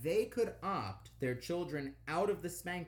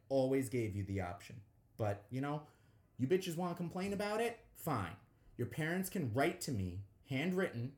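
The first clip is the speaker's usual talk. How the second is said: pimp voice. Acted. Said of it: "Why'd you turn on your pimp voice?".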